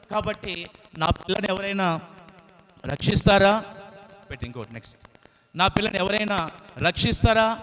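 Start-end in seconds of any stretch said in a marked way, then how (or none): 0.1-3.6 mother bird crying out. Acted. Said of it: "అని అది కేకలు పెడతా ఉంది". 5.5-7.6 high pleading call for help; mother bird crying for help. Acted. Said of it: "అని అది కేకలు పెడతా ఉంది".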